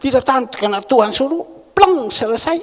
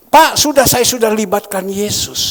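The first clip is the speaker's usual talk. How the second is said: mock protest; 3 semitones higher, 7 dB louder than usual. Congregant's protest acted out.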